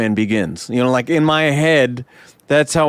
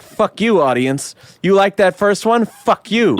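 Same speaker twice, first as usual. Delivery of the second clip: mock angry rant; 6 semitones higher than usual. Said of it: "And it's like".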